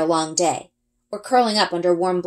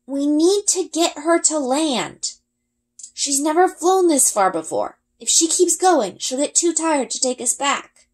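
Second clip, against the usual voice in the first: calling out; 9 semitones higher than usual. A narrator's reading. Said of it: "He cups his hands around his mouth".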